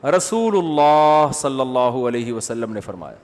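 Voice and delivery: slow, deliberate رسول اللہ صلی اللہ علیہ وسلم; slow reverent. Shown as a demonstration. Mufti showing how he says the Prophet's title, slow. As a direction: savour each word of the title. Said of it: "وہ بولتا ہوں".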